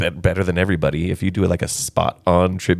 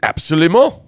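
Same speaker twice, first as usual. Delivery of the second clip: mock French accent, pitched up; playful French accent; 8 semitones higher, 4 dB louder than usual. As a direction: say it like a hammy Frenchman. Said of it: "you could do that with a French accent too".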